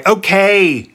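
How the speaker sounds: high, exasperated cut-off; snapped. A narrator's reading. Sphinx stops Oedipus listing cities, snapped. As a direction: cut him off sharply, pitch jumping up. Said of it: "snapped the Sphinx".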